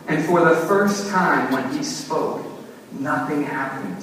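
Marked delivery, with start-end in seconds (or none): none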